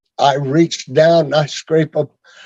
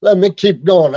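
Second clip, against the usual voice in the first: short of breath, gasping between words; 2 semitones higher than usual. Real, not acted. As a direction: catch your breath while talking. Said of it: "I gotta catch my breath here".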